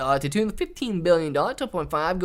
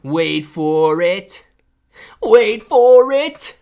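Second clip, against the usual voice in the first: building suspense; 8 dB louder, much slower than usual. Retold or imitated. Reading a viewer sticker aloud, slow suspense building up. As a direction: build the tension each time, bigger. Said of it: "Rozzy says".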